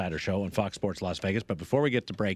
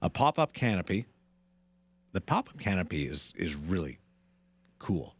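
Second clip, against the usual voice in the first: radio contest promo. Acted. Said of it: "Possibly the worst read ever for the holiday tailgate party".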